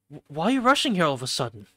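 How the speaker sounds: loud, fast, startled question; surprised. Acted. Asking Hisui why she rushed here, surprised. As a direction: stammer it out in a rush, taken aback. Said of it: "truly surprised".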